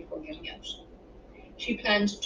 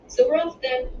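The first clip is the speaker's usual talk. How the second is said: put-on higher, louder call to the kids; raised, hurry-along holler; 5 semitones higher, 7 dB louder than usual. A narrator's reading. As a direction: call through the house to children. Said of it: "she called to the kids".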